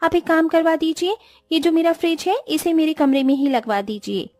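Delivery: sulky, pampered daughter-in-law griping about the heat; haughty young bride fussing; spoiled rich bride. Acted. Vedika voiced by narrator.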